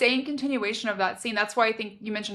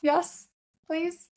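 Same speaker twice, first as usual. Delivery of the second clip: swooning reply; 8 semitones higher, slower than usual. Pretend. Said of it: "And I'm like".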